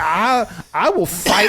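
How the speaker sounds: slow, puffed-up boast; mock big talk. Contestant bragging before heading out, mock tough talk. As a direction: imitate a blustering contestant. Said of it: "the biggest big talk".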